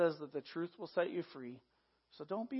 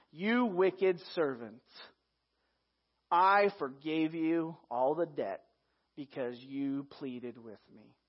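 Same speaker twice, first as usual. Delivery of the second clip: slow stern master; 3 semitones lower, slower than usual. Acted. Master rebuking servant.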